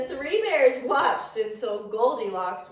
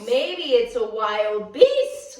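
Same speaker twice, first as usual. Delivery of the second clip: slow, louder worried little bear; little bear frightened at the door, slow and louder; little bear squealing; 5 dB louder, slower than usual. Acted. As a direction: fret about a wild beast. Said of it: "Little Wee Bear squealed".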